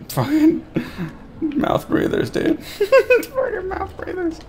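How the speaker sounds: high, slow words broken by laughter; real amused laughter; laughing while talking. Real, not acted. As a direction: giggle through the words. Laughing at mouth breathers.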